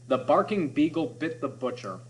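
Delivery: every B hit hard; alliteration demo. Shown as a demonstration. Teacher reading the beagle line to the class, hitting each B. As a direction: bite down on each B. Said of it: "Listen to this one".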